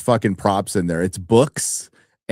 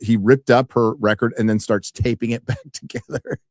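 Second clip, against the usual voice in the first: ordinary talk, nothing marked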